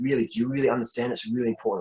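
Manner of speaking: mock heartfelt, earnest, pleading tone. Retelling pleading with a former partner after their split, retelling a plea. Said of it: "I was like pleading with".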